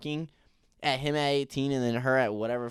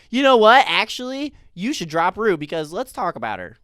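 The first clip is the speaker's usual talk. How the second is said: mock Cassie outburst; 6 semitones higher, 8 dB louder than usual. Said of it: "It's like".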